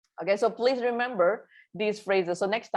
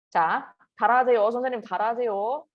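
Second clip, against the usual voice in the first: 따라하세요 rattled off fast; quick classroom command; 4 semitones higher, 3 dB louder, much faster than usual. Shown as a demonstration. Teacher tells the class to repeat, fast. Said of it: "따라하세요 means repeat after me".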